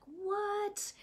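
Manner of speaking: high whispered what; a breathless astonished what; stunned whisper. Retold or imitated. Preacher recalling his stunned reaction to the verse, whispered. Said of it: "And I was like".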